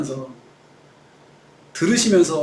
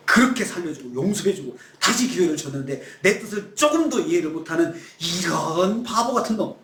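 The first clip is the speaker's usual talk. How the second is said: point-by-point rebuke. Pretend. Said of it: "조목조목 따져서 말씀할 수".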